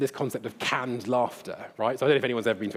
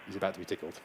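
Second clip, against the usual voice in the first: hushed anticipation; 7 semitones lower, 11 dB quieter, much faster than usual. Real, not acted. Hushed before playing rat video.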